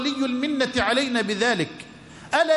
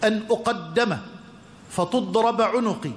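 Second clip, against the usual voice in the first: savoring quote; 3 semitones lower than usual. Retold or imitated. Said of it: "العبارة اللي أنا قلتها الجميلة".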